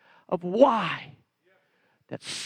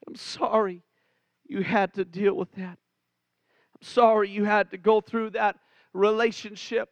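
tender apology. Real, not acted. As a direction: lean in and say sorry from the heart, gently.

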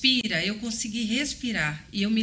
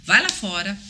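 devil's voice; 4 semitones higher, 5 dB louder, faster than usual. Retold or imitated. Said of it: "Aí veio uma voz".

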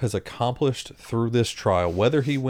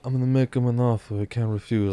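Godfather impression. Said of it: "doing the whole".

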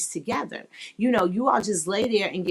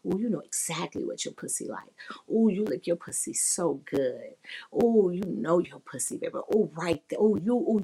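whispered sexy praise. Retold or imitated. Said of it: "if they're doing something I do like".

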